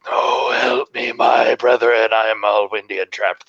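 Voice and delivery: a trapped wind creature begging; pleading trapped spirit. Pretend.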